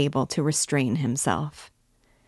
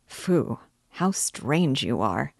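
slow, grave and serious; slower than usual. Acted. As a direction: say it slowly, in earnest. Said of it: "Zamyatov repeated very seriously".

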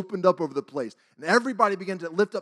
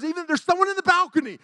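high, loud imitated preaching; revival preacher; 13 semitones higher, 4 dB louder than usual. Evangelist addressing a revival congregation, imitated forceful preaching. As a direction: proclaim it like a fired-up evangelist. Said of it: "this man was up there preaching".

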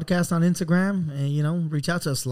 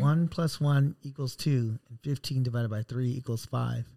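scientist voice; 3 semitones lower, 7 dB quieter than usual. Pretend. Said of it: "You sound like a scientist right now".

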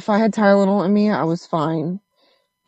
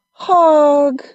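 put-on little kid voice; 2 semitones higher, much slower than usual. Her kid asking for hugs.

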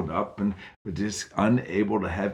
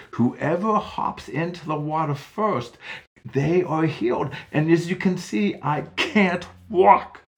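put-on frustrated old man; 8 semitones higher, 5 dB louder than usual. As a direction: complain harder till it breaks.

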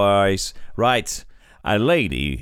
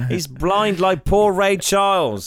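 high mocking voice; 10 semitones higher than usual. Mocking Ray.

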